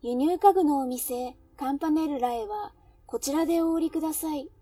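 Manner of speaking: train conductor announcement. Shown as a demonstration. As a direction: announce the stop mechanically, word by word. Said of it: "毎日機械みたいに案内していると".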